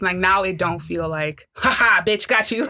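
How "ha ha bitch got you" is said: taunting. Retold or imitated. Imitating a two-faced schemer.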